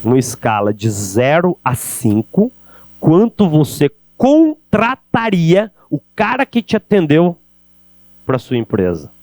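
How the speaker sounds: slow, weighty rereading of the question; slow, rising, dramatic emphasis; slow dramatic repeat. Shown as a demonstration. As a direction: let each word of the question land, slowly. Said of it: "Repito a pergunta".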